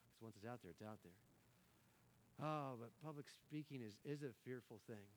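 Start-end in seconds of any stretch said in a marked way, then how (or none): 0.1-2.5 slow, soft whisper. Real, not acted. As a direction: breathe it out slowly for weight. Warning words can't be taken back.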